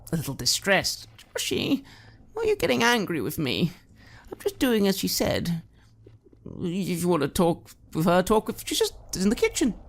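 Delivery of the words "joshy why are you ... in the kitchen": put-on high, wheedling drunk mother with sudden whispers; creepy doting mother. Mother wheedling her grown son Joshy, creepy doting voice. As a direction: coax your son sweetly, menace underneath.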